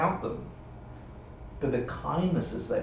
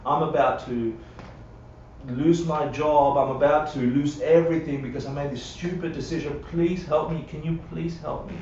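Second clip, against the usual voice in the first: begging for help. Retold or imitated. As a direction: beg like someone about to lose everything. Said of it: "So someone's begging you".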